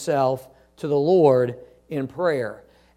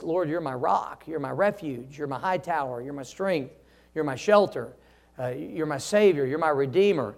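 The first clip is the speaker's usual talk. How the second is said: softer, hushed prayer to the Lord; quiet prayer; 3 semitones lower, 6 dB quieter than usual. Shown as a demonstration. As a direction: pray it softly, close and sincere. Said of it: "when I pray, I say that".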